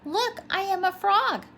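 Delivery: high, loud proud announcement; triumphant. A narrator's reading. Tadpole showing off new legs to minnow, triumphant. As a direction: crow it with triumph. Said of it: "he said triumphantly".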